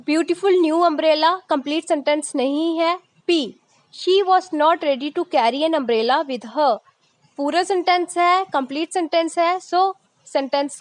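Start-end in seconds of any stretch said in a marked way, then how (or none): 3.9-6.8 reads the sentence very slowly; slow reading. Shown as a demonstration. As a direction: spell it out word by word for the class. Teacher reads example slowly. (धीरे-धीरे पढ़ना)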